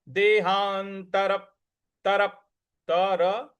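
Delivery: देहांतर then तरप with a hit on the प; stress on प. Shown as a demonstration. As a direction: press the प after देहांतर. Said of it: "उस पर हमको आघात देना है".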